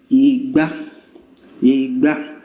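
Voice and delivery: "Ìgbà" mid then high, rising; mid-high tone demo. Shown as a demonstration. Teacher modelling the re mi tones of "Ìgbà". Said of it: "turn it to re mi".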